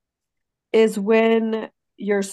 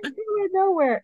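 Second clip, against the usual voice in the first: higher, slow-start exasperated outburst; exasperated rant; 8 semitones higher than usual. Retold or imitated. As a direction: vent at the dispatcher in disbelief. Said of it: "I'm like".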